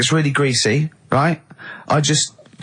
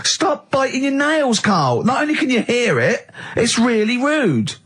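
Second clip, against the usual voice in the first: laughing through words; 8 semitones higher than usual. Real, not acted. Mock scolding about nail biting.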